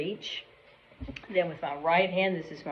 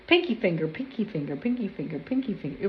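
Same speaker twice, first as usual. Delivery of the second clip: rapid-fire repeats; fast tongue twister; faster than usual. Shown as a demonstration. Teacher testing herself on a tongue twister, fast repetition. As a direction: rattle it off over and over. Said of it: "Say that ten times fast".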